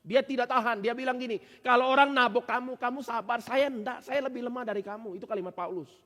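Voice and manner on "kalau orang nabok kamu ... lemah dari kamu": higher, heated quoting of Paul; raging Paul. Retold or imitated. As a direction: preach Paul's outburst with heat. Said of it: "Paulus ngamuk". (Paulus yang ngamuk, suara lebih tinggi)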